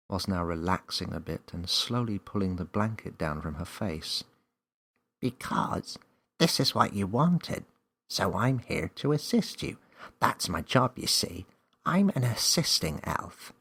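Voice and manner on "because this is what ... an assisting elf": higher elf voice, proud; chirpy helper elf; elf explaining. A narrator's reading.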